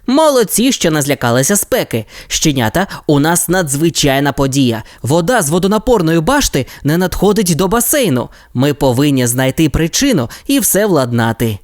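put-on brief the team like a young captain; lightly voiced Ryder. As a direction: Ryder gives the pups their mission.

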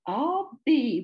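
high, loud gasp of wonder; amazed. Acted. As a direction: marvel at it out loud. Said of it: "whistled Buku in amazement".

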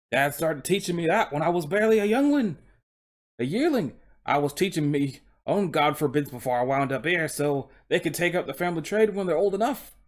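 put-on Cockney horse voice; Cockney coach horse. Horse recalling his dad's lessons, Cockney accent. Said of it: "he's speaking in a Cockney accent".

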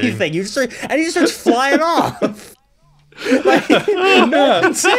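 high, laughing rant. Real, not acted. Friend mocking Perturabo's outburst, laughing high.

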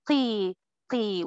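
قي said with lips pulled back wide; qaf with wide smile. Shown as a demonstration. Teacher showing the child drill for qaf. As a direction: stretch the cheeks back and say قي. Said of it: "قولي قي وتعمل كده".

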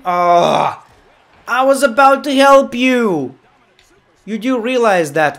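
high, loud protest; indignant shout. Real, not acted. Referee protests to wrestler he was helping, indignant shout. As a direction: yell it like you've been wronged. Hit while trying to help.

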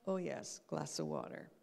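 low note to self, voice sinking; self-reminder. Shown as a demonstration. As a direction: act out a remembered habit, pitch falling away. Acts out the reminder a second time.

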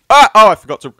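loud laughing groan at own blunder. Real, not acted. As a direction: laugh at your own mistake. Forgot to run from monster.

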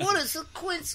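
very high, put-on woman's voice; Puerto Rican actress. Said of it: "What if she said that".

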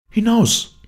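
high, loud command; angry cry. A narrator's reading. Heroine to the intruder at the window, angry shout. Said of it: "rief sie ihm zu".

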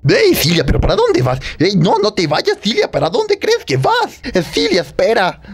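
high calling voice, pleading her to stay. Acted. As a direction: call after her to wait. Calling after her as she leaves. (llamándola a gritos)

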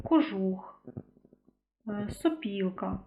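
кожух said slowly, its unstressed о drawn toward у; сопілка said slowly, о leaning toward у; vowel-shift example. Shown as a demonstration. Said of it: "ми можемо на слух сприйняти".

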